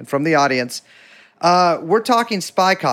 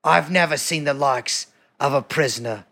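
put-on goofy British accent; 3 semitones lower, 3 dB quieter than usual. Host narrating an Old Bailey skit as a bewigged judge, goofy British accent. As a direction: play a mock-solemn old British judge, taking your time. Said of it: "Have you done your goofy British accent yet?".

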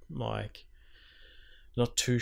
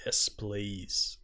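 whisper; 8 dB quieter than usual. Real, not acted. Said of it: "eager over trailer".

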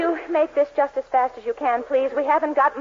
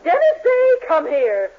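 much higher, louder call of his name; angry summons; 3 semitones higher, 4 dB louder than usual. Acted. Arriving girlfriend angrily summons Dennis, high and loud. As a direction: demand he come over now.

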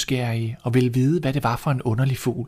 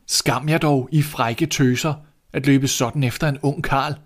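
scolding priest; 3 semitones higher than usual. Acted. Priest scolds the running girls.

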